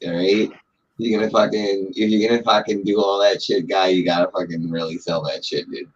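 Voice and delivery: coaching in thickened Boston; Boston banter, laid on thick; thick Boston accent. Shown as a demonstration. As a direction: sell the Boston accent as you explain. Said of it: "But I don't really talk like that".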